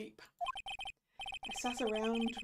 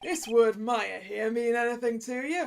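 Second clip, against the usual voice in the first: noir detective; 6 dB louder than usual. Acted. Detective questions suspect.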